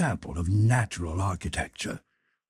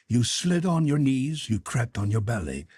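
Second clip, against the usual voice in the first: ordinary delivery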